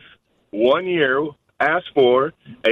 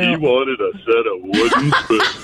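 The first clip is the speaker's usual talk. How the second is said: deep romantic voice. Pretend. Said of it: "romantic with your deep voice".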